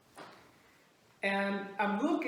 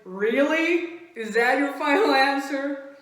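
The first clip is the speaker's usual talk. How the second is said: raised, louder disbelieving question; mock interrogation; 3 semitones higher, 4 dB louder than usual. Teller pressing a friend, incredulous. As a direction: press for the truth.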